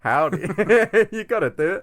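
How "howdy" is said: louder mock-Texan greeting; jokey Texas howdy; playful Texas accent. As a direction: echo the joke in a fake Texas accent. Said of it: "doing my Texas accent".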